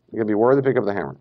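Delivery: rushed repeat. Shown as a demonstration. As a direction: rattle it off quickly.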